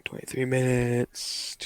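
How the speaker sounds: slow, hushed repeat under the breath; muttering to self. Real, not acted. Presenter noting the segment time, hushed mutter to self. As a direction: murmur it softly while noting it down.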